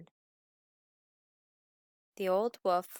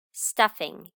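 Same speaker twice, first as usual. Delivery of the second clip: muttered aside; 7 dB louder than usual. Acted. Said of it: "he said to himself".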